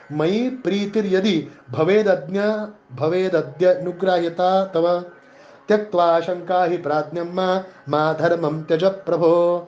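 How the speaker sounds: slow intoned Sanskrit verse; shloka recitation. Acted. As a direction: chant the verse deliberately. (संथ संस्कृत श्लोक पठण)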